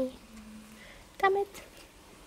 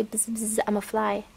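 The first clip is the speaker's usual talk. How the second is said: fly buzz. Pretend. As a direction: pretend to be a buzzing fly. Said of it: "pretend you're a fly".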